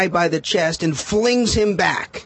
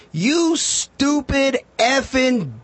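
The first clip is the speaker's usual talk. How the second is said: 1 angry insult; 7 semitones higher, much slower than usual. Retold or imitated. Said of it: "and says".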